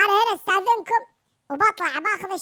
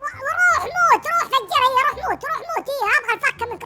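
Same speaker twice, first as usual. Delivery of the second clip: raised, heated go-away rant; fed-up angry dismissal; 4 semitones higher than usual. Pretend. Player fed up with his friend's threats, heated dismissal. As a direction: drive him off in exasperation.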